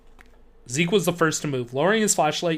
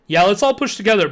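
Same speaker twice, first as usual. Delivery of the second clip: eager; 5 semitones higher, 7 dB louder than usual. Acted. Eager kid agreeing to push.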